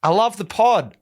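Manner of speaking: imitating a rider yelling over dust; retold yell. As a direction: call out cheerily over the noise. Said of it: "Yells out across to me".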